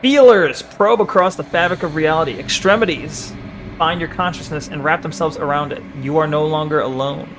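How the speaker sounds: lightly dramatic read-aloud; game text narration. Acted. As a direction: read the eerie text with measured weight.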